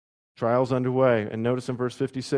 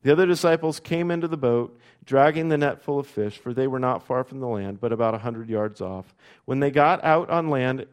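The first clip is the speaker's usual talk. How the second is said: louder, measured Bible reading to the congregation; scripture reading; 3 dB louder than usual. A narrator's reading. Pastor reading John twenty-one to the church, measured and ringing. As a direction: read the passage out with lift and weight.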